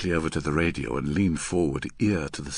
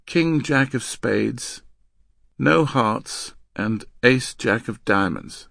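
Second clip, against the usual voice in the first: slow, tired listing; weary recital; 4 semitones higher, 4 dB louder, slower than usual. Acted. Girl reciting cards in the drill, weary. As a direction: plod through the cards in a raised voice. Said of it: "the girl replied wearily".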